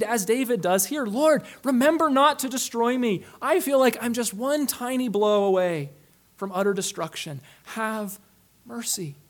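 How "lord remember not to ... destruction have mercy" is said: pleading prayer. Retold or imitated. Preacher voicing David's prayer, mild pleading. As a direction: beg God not to destroy you, trailing off. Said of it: "feel the need to plead".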